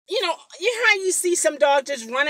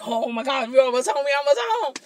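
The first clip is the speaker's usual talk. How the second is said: mildly excited, lightly voiced dog; imagined excited dog; faster than usual. Telling how the dog neared home, mildly excited. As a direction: act out a dog's eagerness to be home. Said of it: "the more excited he got".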